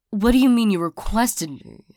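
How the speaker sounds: taken aback, demanding an explanation; incredulous question. Acted. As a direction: question it in mild disbelief. Stunned that ex requested them.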